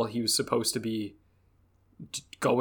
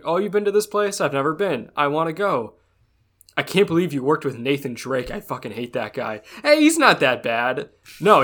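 imitating the two women; 3 semitones higher than usual. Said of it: "be like".

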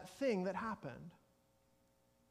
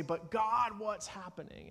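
mildly alarmed cry to God, pitched up at the start; worried appeal; 3 semitones higher than usual. Acted. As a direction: act out a believer's bewilderment. Acted worried believers crying to God.

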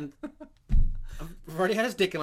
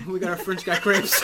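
laughing loudly; 9 dB louder than usual. Real, not acted. Loud laughing line.

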